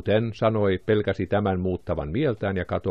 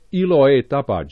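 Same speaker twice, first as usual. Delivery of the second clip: higher and louder joyful cry; exclaimed; 6 semitones higher, 5 dB louder than usual. A narrator's reading. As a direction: Jane bursts out in joy, pitch up. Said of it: "Jane huudahti". (iloinen huudahdus, korkeampi ja kovempi)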